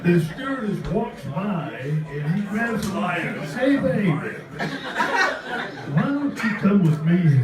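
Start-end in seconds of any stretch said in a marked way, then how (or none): 3.5-7.4 lightly imitated pickup line, pitched up; drawn-out, teasing imitation of a flirt; mock come-on. Friend retells a pass at the stewardess, mock come-on.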